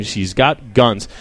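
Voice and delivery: slow emphatic repeat. Shown as a demonstration. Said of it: "that's right, Ian".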